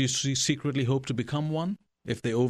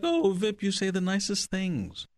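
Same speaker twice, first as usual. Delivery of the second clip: higher-pitched quote of a flattered friend; a hint of gushing, retold; flattered woman, imitated; 7 semitones higher, slower than usual. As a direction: lightly voice her delighted reply. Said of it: "but she's like".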